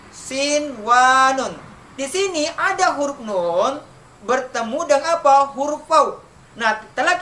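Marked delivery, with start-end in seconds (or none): 0.1-1.6 "sinwanun" slow, with a clear n before w; izhar reading. Shown as a demonstration. Teacher modelling the exception for pupils, "sinwanun" slow and unmerged. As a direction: draw out "sinwanun", keeping the n unmerged. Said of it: "Bapak ulangi lagi".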